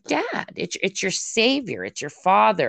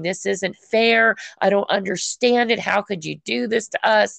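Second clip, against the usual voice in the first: mild mock outcry, slightly raised pitch; retold scream; 3 semitones higher than usual. Woman recounting her protests to God in the tub, mild mock scream. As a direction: imitate protesting, without really screaming. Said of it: "screaming at God".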